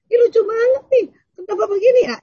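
very high, tickled chatter; amused exclaiming. Acted. Wife to husband about a funny video, amused exclaiming. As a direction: gush in a high voice at how funny it is.

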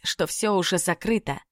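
ordinary delivery

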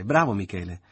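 loud bright cheer. A narrator's reading. Mother cheering Michele, loud. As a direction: applaud the boy.

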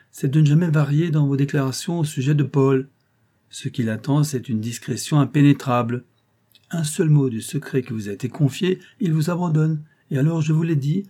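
lightly voiced old clerk, knowing and insinuating; hint at danger like a crafty old law clerk; sly old clerk. Old clerk warns the concierge of her enemies, lightly insinuating.

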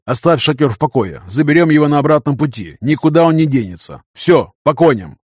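firm leader rallying his troops; commanding. Acted. Командир отдаёт приказы отряду. (командный тон)

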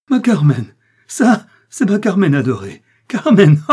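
loud, high, crazed laughing cry; mad laughter. Acted. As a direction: break into madness. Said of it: "il partit d'un grand éclat de rire".

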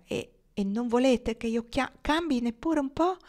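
a wondering question rising high at the end; full of wonder. A narrator's reading. Marnie asks her suitor in wonder, rising high. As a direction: ask it in amazed disbelief, voice climbing up. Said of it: "disse con voce piena di meraviglia".

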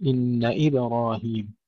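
slow "إن إبراهيم" with the ba kept still; vowelless ba. Shown as a demonstration. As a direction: echo ba in "إبراهيم" with no added vowel. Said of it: "والمفروض أن تبقى ساكنة".

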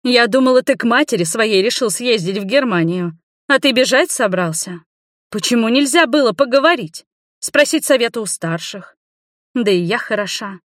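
high, reproachful lecture; indignant elder telling off her family; scolding. A narrator's reading. Older woman scolds the family.

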